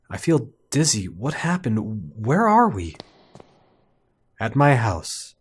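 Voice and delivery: measured, lightly acted story dialogue; game dialogue reading. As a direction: read the lines out evenly, with a touch of drama. Reads out characters' dialogue.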